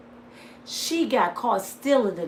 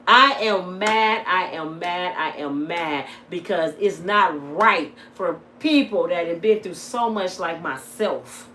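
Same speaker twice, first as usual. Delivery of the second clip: real anger; 2 semitones lower, slower than usual. Real, not acted. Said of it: "because I'm mad".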